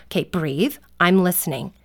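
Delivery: calming parent. Acted. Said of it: "sometimes they're really worked up".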